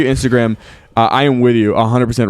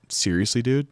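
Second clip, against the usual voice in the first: disbelief; 8 dB quieter than usual. Retold or imitated. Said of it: "stared at me in disbelief until he finally said".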